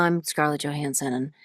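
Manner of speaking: lightly voiced raspy, relaxed voice; Scarlett Johansson. Shown as a demonstration. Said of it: "I get to that raspy point".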